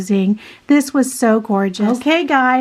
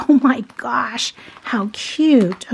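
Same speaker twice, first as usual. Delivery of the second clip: awed whisper; slower than usual. Real, not acted.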